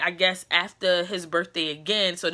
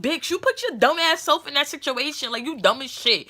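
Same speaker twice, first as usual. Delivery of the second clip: scolding herself; 6 semitones higher than usual. Retold or imitated. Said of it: "I'm like".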